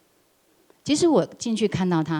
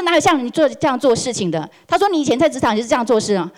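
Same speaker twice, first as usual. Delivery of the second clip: higher, fast heated reproach; retold angry rebuke; 4 semitones higher, 4 dB louder, faster than usual. Boss scolding employee's past work, heated rebuke. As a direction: hammer him with blame.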